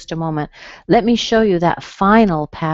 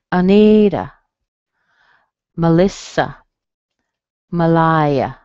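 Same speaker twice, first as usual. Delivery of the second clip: Anita, Melissa, Malaya, each stressed on the middle syllable; weak-STRONG-weak on Anita, Melissa, Malaya, spaced apart; 5 dB louder, slower than usual. Shown as a demonstration. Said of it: "Let me show you right in here".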